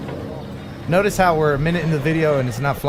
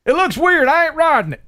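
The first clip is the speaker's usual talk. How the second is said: redneck voice; 10 semitones higher than usual. Acted. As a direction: play a hick who won't ride it. Hick voice, redneck lead-in.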